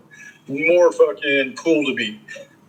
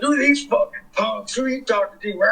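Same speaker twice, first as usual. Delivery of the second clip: mock sneering skinhead girl; 5 semitones higher than usual. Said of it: "she's like".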